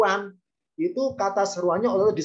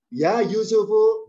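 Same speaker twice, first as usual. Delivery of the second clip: slow, ringing call, pitched up and louder; 5 semitones higher, 5 dB louder, slower than usual. Shown as a demonstration. Al-Aziz calling Yusuf out loud, ringing voice. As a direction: call the name out clearly. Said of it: "suaranya lantang".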